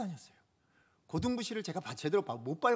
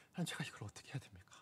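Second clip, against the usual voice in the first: quick, breathy whispered plea to God; whispered prayer; 3 semitones lower, 9 dB quieter, faster than usual. Retold or imitated. Preacher reliving a silent panicked prayer, whispering quickly. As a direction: whisper the prayer fast under your breath. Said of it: "하나님 앞에 기도했어요".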